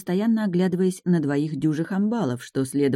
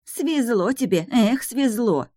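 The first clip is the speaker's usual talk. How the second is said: envious; 7 semitones higher, slower than usual. Acted. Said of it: "с завистью скрипнула зубами Тарья".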